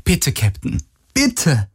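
pleading, last word pitched high; urgent pleading. A narrator's reading. Kirai begging the captain to flee, urgent pleading. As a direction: beg insistently. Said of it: "drängte Kirai".

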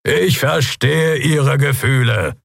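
high, slow, firm address; calling to crowd. A narrator's reading. Captain answers the grieving citizens, calling out firmly. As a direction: project it firmly over the crowd.

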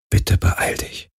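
leises, langsames Flehen flüstern; geflüstert. Acted. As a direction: flehend hauchen wie ein Gebet. (geflüsterter, flehender Gedanke)

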